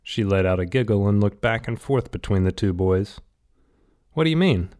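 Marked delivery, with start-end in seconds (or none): 4.1-4.7 lightly voiced boy caught off guard; blurted. A narrator's reading. Rat blurts his question at Sarah, startled and higher. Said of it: "blurted Rat".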